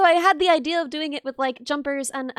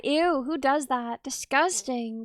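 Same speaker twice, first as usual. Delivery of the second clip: mock disgust; 3 semitones lower, 4 dB quieter, slower than usual. Mock scolding streamer.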